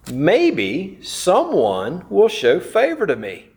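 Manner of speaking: slow, hopeful inner prayer. Retold or imitated. Preacher voicing Ruth's morning prayer, slow and hopeful. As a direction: let the hope hang on each word. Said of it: "That was her prayer".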